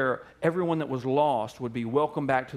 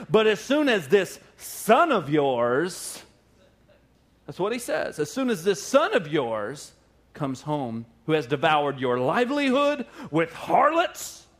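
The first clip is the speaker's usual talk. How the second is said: sarcastic. Retold or imitated. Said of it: "he gets a little sarcastic with his dad".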